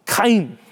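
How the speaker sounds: "Chaim" opening with a throat-clearing ch; throaty Hebrew ch. Shown as a demonstration. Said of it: "like you're clearing your throat sound".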